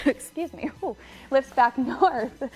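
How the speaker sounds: choked up. Real, not acted. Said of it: "Got me all choked up".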